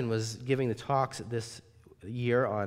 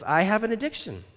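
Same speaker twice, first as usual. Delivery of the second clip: a pitched-up, plaintive confession; sheepish abductor; 9 semitones higher, 5 dB louder than usual. Retold or imitated. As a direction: whine the excuse a little. Jesse confessing.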